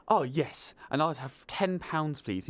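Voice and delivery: mimicking an American's attempt at British; bad British accent. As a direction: put on a weird, mixed-up British accent. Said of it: "tried to talk in a British accent".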